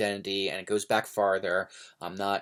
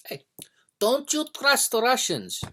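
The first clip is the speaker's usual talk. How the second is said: much higher, put-on old grandma voice; grandmother's warning; 14 semitones higher, 3 dB louder than usual. Grandson imitates grandmother warning him about Russians, high put-on voice. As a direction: squeak it out like a fussy old grandma. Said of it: "my grandmother would say".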